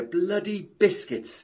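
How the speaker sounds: slow, contemptuous sneer; scornful, drawn out. Acted. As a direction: spit out each word with disgust. Man scoffing at the biscuits.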